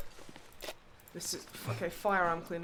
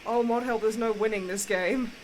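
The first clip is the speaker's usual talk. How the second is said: loud frustrated outburst; tantrum; 4 semitones higher, 7 dB louder than usual. Real, not acted. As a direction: rant loudly at the game. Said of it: "so I had a bit of a tantrum".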